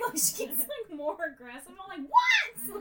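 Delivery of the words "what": "What?" yelled very high and loud; yelling back at cat. Retold or imitated. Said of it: "I yell at her back".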